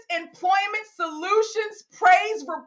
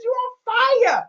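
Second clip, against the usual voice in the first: high, emphatic praise; excited hype; 5 semitones higher than usual. Real, not acted. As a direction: hype up your winning colleague. Cheering a colleague's success.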